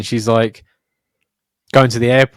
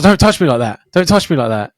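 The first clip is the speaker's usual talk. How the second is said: imitating a passenger's staged outrage; lightly mock a false accuser, slightly raised; put-on protest; 5 semitones higher, 3 dB louder than usual. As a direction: act wronged for an unseen audience, half-hearted. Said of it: "why are you acting like that".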